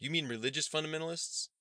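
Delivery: high, rising query; puzzled wondering. A narrator's reading. Newcomer asking students about their slang, puzzled. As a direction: repeat it as a baffled question. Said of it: "Elijah wondered".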